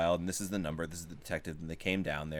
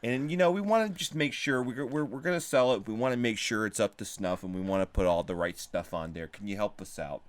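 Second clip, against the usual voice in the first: put-on Chicago accent; 2 semitones higher than usual. Pawn shop guy asking repair shop to fix guitar, Chicago accent. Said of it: "I'm doing the Chicago accent".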